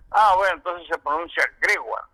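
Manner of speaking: Gregoire said French, grewa, by the host; imitating the host saying Gregoire as grewa; host's French. Quoting the announcer saying Gregoire as grewa. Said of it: "y lo acentuó así".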